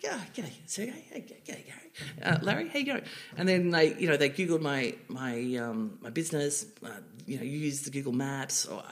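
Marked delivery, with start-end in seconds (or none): 0.0-3.0 higher, a touch of breezy Aussie mateyness; cheeky Aussie greeting. Retold or imitated. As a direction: greet the founders casually, lightly acted. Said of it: "I'm like".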